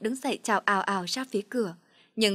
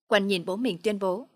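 ordinary delivery

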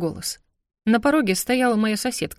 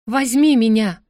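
louder and firmer; more convincing; 3 semitones higher, 6 dB louder than usual. Acted. Heroine obeying the demon's order, more convincing. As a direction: push it out with conviction. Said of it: "Убедительнее".

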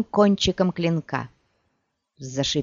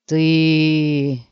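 a loud, furious cry of disbelief; angry shout; 5 dB louder than usual. Acted. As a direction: spit it out at her in rage. Wounded Bonart shouts at Ciri. (яростный выкрик)

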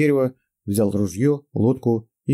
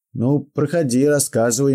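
put-on old prospector; 5 semitones higher, 4 dB louder than usual. Old man voiced in story.

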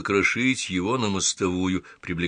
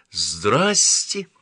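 a loud, drawn-out hello; called-out greeting; 4 dB louder than usual. Acted. Door greets a man who hasn't noticed her, calling out. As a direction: call the greeting out, swelling on it. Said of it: "и крикнула".

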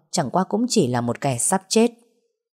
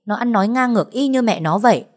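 raised, indignant scolding; scolding rebuke; 4 semitones higher, 3 dB louder than usual. Acted. Ngọc scolding Ánh for blaming Mr. Khánh, raised and indignant. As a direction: tear into her for blaming the father.

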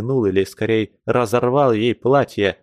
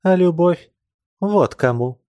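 passionate answer; 7 semitones higher than usual. Acted. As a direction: fling it back at him with passion. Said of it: "сказала она и вдруг обвелась".

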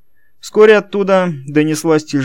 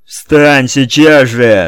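громкий медленный рёв; заорать во всю глотку; 3 semitones higher, 8 dB louder, much slower than usual. A narrator's reading. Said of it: "заорал Кенни". (Кенни орёт на дворецкого встать)

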